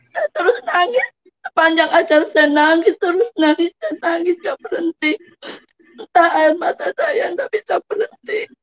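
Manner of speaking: tearful telling, voice lifting; menangis haru. Real, not acted. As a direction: keep talking through real tears. Tearful retelling of her weeping. (bercerita sambil terisak)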